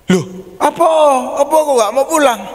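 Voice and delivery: high, startled mother's voice; surprised mother. Retold or imitated. Mother surprised child refuses. (ibu kaget, suara tinggi)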